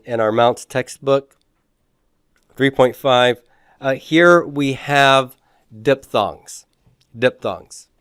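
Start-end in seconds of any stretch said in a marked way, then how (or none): 5.8-7.9 diphthongs said twice, slowly and clearly; term repeated. Shown as a demonstration. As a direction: repeat the term for note-taking. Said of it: "Jot that down here".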